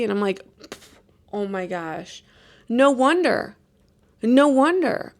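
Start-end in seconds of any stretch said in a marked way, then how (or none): 1.3-5.1 shocked realization. Retold or imitated. Realising caffeine caused it.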